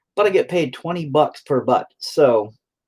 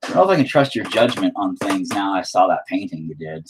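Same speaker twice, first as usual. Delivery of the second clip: lightly voiced skeptical wife, pitched up at the start; imitating his wife; 4 semitones lower than usual. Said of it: "She's like".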